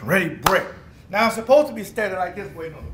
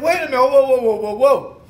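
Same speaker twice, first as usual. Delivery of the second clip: alarmed protest; 4 semitones higher, 8 dB louder than usual. Retold or imitated. Told to play linebacker, protests.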